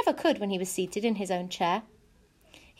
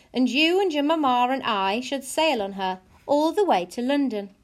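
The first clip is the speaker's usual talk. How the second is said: father's announcement, pitched up a little; lightly voiced father; 4 semitones higher than usual. Father telling his family about sailing to London, lightly voiced. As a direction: lightly play a father laying out the travel plan.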